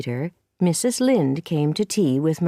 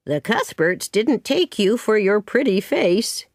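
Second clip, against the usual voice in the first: lightly acted critical neighbour, pitched up; disapproving Mrs Lynde; 4 semitones higher than usual. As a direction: pass blunt judgement on the girl. Mrs Lynde criticises Anne's looks.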